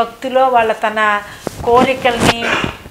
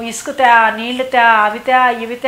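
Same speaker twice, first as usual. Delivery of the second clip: louder, bossy calling out of chores; imitated loud orders; 6 dB louder than usual. Amma ordering the narrator to fetch sand and water, loud commands. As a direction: bark out the errands like a busy elder.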